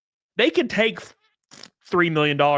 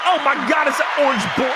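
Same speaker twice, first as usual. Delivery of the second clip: much higher, louder excited squeal; surprised; 10 semitones higher, 4 dB louder, faster than usual. Real, not acted. Streamer reacting to a chatter's orange name, squealing higher. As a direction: shriek in delight at the orange name.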